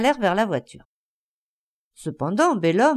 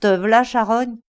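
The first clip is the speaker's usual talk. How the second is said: growled insult, a bit louder; 4 dB louder than usual. Acted. Bellhomme growls at the beaten flea. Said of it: "Il grogna".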